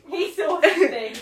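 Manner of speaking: slow line through a chuckle; laughing. Real, not acted. Echoing her friend's joke about the toy, laughing.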